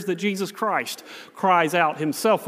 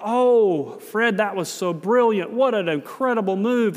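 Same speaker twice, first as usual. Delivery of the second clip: admiring gush; 3 semitones higher than usual. Retold or imitated. Grateful family congratulates the TV host, admiringly gushing. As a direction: play an impressed parent marvelling. Family praises Fred in retold scene.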